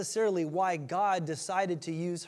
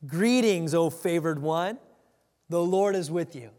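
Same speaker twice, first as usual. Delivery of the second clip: angel greeting; 5 dB louder than usual. Retold or imitated. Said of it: "He came to her and he said".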